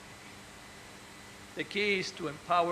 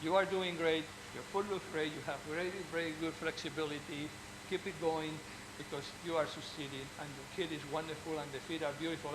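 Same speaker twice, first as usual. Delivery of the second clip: reassuring praise; 6 dB quieter than usual. Shown as a demonstration. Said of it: "What you want to go to the clinic is to say".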